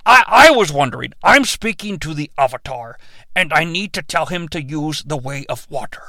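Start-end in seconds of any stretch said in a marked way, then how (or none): 3.3-6.0 hushed aside into the phone; whisper. Pretend. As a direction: whisper it so the Avatar won't hear. Dragon whispering to legal.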